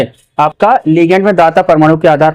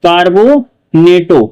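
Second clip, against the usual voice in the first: slow model answer; much slower than usual. Shown as a demonstration. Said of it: "क्या कहेंगे आपका?".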